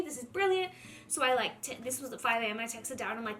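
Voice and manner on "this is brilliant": excited. Retold or imitated. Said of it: "I was so excited".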